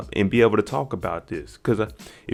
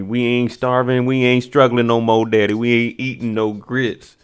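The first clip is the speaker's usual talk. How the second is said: retold protest; 4 dB louder than usual. Son objecting to his daddy over grits, emphatic retold protest. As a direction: push back at dad, stretching each refusal.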